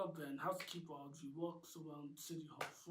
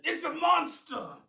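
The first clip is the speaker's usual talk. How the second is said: screamed much higher and louder; terrified scream; 13 semitones higher, 18 dB louder than usual. A narrator's reading. Butler Ben screaming at the monster, terrified. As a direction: shriek in sheer terror. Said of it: "They start yelling and screaming".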